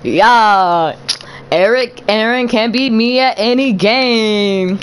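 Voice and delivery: loud gamer chatter. Real, not acted. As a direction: say it loud across the room. Loud excited talk.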